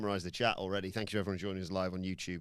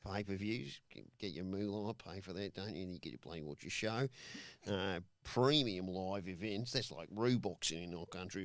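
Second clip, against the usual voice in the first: put-on lightly done Australian accent. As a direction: murmur it like a laid-back Aussie. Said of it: "The accent has gone to his brain".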